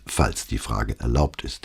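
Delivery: obliging little aside; politely obliging. A narrator's reading. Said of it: "schob aber gleich ein verbindliches".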